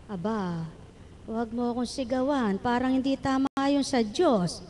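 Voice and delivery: a wife calmly refusing to be shouted at; quiet reply. Retold or imitated. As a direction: answer him gently under your breath. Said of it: "wife's reply voiced softly".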